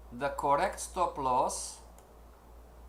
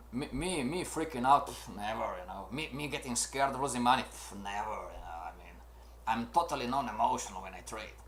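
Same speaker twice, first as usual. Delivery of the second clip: sarcastic denial; 4 semitones lower, faster than usual. Retold or imitated. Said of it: "you have a big ego".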